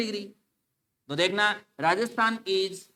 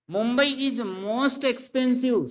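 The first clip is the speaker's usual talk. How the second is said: slow reading; 4 semitones higher, much slower than usual. Shown as a demonstration. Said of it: "reads wrong option slowly".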